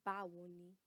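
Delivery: "Báwo ni?" modelled, stress on "Báwo"; casual hello, "Báwo" leaned on; casual Yoruba greeting. Shown as a demonstration. Teacher models a casual hello for classmates. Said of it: "Repeat after me".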